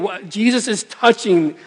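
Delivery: anxious inner voice. Retold or imitated. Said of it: "he's thinking".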